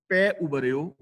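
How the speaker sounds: ਪੈ ਉਭਰਿਓ with a clear pause after it; pause after phrase. Shown as a demonstration. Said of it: "ਇੱਥੇ ਵਿਸਰਾਮ ਲਗਾਵਾਂਗੇ".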